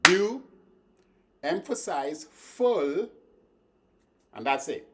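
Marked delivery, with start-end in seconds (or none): 0.0-0.4 "beau" hit much higher and louder; stress on beau. Shown as a demonstration. Teacher showing students which syllable to stress. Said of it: "emphasize beau".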